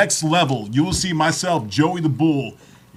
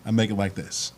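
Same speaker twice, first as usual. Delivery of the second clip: stripper voice; 7 semitones lower, 3 dB quieter than usual. Shown as a demonstration. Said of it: "That stripper voice".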